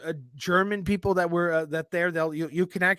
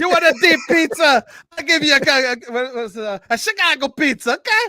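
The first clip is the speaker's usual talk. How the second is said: higher, louder Chicago tough-guy voice; 8 semitones higher, 6 dB louder than usual. Retold or imitated. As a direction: push it like a brash Chicago pizza man. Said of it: "It's like Joe Pesci".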